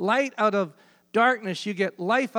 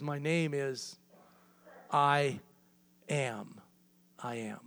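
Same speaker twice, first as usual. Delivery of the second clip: slow, softer and lower with long pauses; hushed awe; 4 semitones lower, 6 dB quieter, slower than usual. Acted. God answers Moses at the burning bush, hushed and reverent. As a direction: let each word land quietly with reverence.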